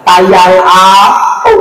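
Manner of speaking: put-on slow, drawn-out baby-talk darling; cutesy wife. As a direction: coo it like a doting wife. Wife greeting husband cutesy.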